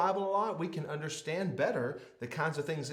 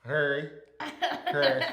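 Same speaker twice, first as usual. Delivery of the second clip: slow clear correction; slower than usual. Shown as a demonstration.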